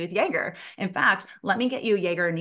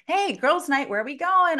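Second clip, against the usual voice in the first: put-on high, loud group-of-girlfriends call; mock-excited, pitched-up holler; 8 semitones higher, 4 dB louder than usual. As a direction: imitate girlfriends rallying for a night out. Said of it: "My girlfriends are like".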